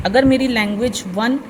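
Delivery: usual speaking voice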